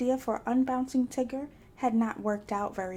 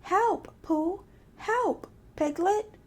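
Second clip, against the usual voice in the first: shouting; 9 semitones higher, much slower than usual. A narrator's reading. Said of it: "he shouted".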